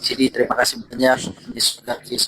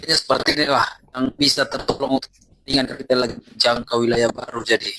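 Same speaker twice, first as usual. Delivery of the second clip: bad connection. Real, not acted. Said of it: "Masih putus-putus".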